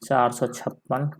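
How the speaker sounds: slow, spaced चार सौ छप्पन; teacher dictating चार सौ छप्पन slowly; slow dictation. Shown as a demonstration. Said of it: "Hindi में क्या लिख सकते हैं".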